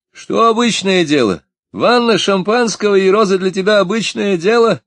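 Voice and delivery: put-on jealous drunk youth yelling at Maria; indignant drunken shout. A narrator's reading. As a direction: throw her words back at her in a yell. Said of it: "крикнул молодой и пьяный".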